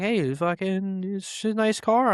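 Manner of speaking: high-pitched mock call-out; imitated yelling. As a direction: holler a compliment like a stranger afar. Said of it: "caveman, yelling to me from the tree line".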